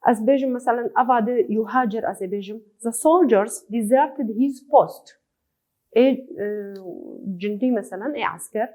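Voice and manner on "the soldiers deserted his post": words spaced out slowly; teacher reading an example line slowly. Shown as a demonstration. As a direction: read it slowly, as dictation for the class.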